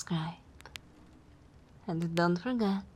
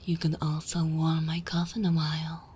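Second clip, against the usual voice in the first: vampire giving orders, firm and projected; commanding vampire; 6 dB louder than usual. Acted. Vampire sending new thrall for wine, firm and commanding. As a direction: direct a servant with easy authority.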